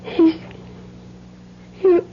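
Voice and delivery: breathless whisper of disbelief; stunned whisper. Acted. Wife facing the man she thought dead, stunned whisper. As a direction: barely voice it, as if afraid it is true.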